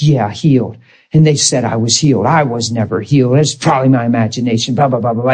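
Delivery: low, dismissive grumble, lightly put on; mimicked bitter grumbling. Preacher voicing a man mad at losing healing, mild bitter grumble. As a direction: grumble it as a sour, low mock complaint. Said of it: "He got so angry".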